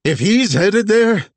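high, loud spiteful yell; shouting. Acted. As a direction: shout the threat after her. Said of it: "Vess shouted".

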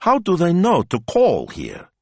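high, slow, bewildered question; dazed disbelief. A narrator's reading. Boss baffled by calls for Dante, incredulous. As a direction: raise the pitch in bafflement.

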